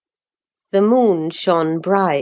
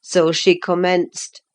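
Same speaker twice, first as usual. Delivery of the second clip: ordinary delivery, nothing marked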